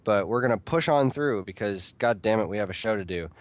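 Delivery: stuffy nose from a cold; blocked-nose, snotty talk; nasal voice. Real, not acted. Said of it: "probably why I sound a little, uh, nasal snotty".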